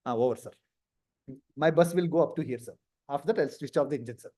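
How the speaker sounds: mildly meek candidate reciting; low-key, run-on answer; subdued candidate. Acted. Candidate drones on to interviewer.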